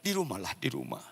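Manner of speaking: soft, imitated meek prayer; praying. Wife praying at the airport to be spared, hushed plea. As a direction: plead quietly with God. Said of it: "selalu dia berdoa".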